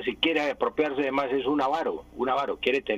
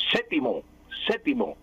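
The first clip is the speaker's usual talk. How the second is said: radio announcer quote; 8 semitones higher than usual. Retold or imitated. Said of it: "decía".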